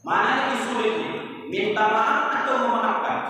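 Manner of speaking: fast, fuller-voiced repeat; preacher re-asks the congregation quickly; brisk repeated question. Shown as a demonstration. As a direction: fire the question again quickly.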